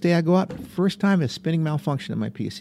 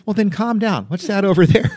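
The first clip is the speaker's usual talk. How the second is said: high, giggly mock-calm passenger; laughing while quoting; 9 semitones higher, 7 dB louder than usual. Passenger telling nervous jumpmaster to calm down, laughing. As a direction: pitch it up and laugh through it.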